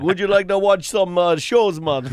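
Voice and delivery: badly faked Jamaican accent; botched Jamaican accent, drifting Russian. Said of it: "Why is your Jamaican accent Russian?".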